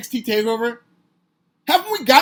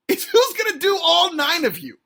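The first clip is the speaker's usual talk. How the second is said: a light take on the comedian's punchline, a bit higher; lightly voiced stand-up delivery; Louis C K bit; 6 semitones higher, 3 dB louder than usual. Quoting a comedian's bit to mock the roster, lightly voiced. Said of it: "Louis C K has this bit".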